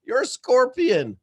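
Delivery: high, loud panicked turtle; a frightened turtle cries out no; alarmed turtle. Acted. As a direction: shriek the refusal like a scared turtle. Turtle voiced in fable.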